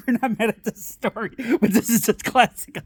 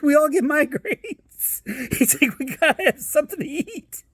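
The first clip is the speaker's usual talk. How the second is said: high-pitched playful dad voice, half laughing; mock dad excuse; 7 semitones higher than usual. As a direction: plead like a dad justifying donuts.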